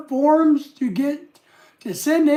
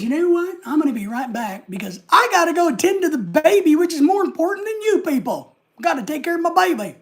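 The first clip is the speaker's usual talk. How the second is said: higher, playful voice for the chat message; reading a viewer's message; 5 semitones higher than usual. Retold or imitated. Host reads viewer's message about leaving for baby, higher mock voice. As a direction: voice the viewer, a little higher and cheekier. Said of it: "Jamie says".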